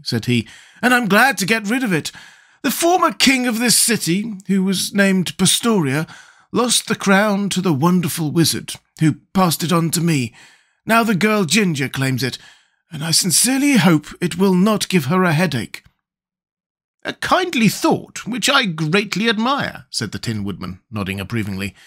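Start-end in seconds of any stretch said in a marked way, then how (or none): 0.8-15.8 Scarecrow voice. Acted. Scarecrow continues. 17.0-19.9 much higher, slow and approving; a gentle tin man nodding along; Tin Woodman voice. Acted. Tin Woodman praising the Scarecrow's kind thought, high and slow.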